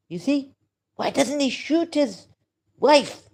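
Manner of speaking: high, agitated challenge rising to a loud last word; really worked up, pitch jumping high; emotional outburst. Real, not acted. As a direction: throw the question out in agitation. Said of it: "sorry, I get emotional".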